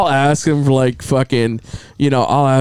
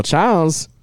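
Chinese lady doctor. Retold or imitated. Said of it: "was a Chinese lady".

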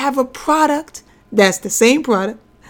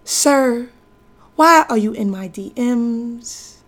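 poem reading. Acted. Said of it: "that poem is".

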